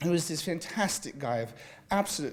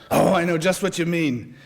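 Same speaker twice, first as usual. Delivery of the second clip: a lightly voiced Nick, heartfelt and higher; Nick with feeling; 4 semitones higher, 5 dB louder than usual. A narrator's reading. Care worker Nick agreeing over breakfast, heartfelt. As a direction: say it like you truly share the dread. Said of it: "Nick said with feeling".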